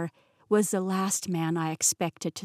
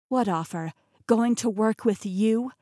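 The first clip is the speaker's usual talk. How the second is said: scoffing; 2 semitones higher, 4 dB louder than usual. Acted. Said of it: "I scoffed".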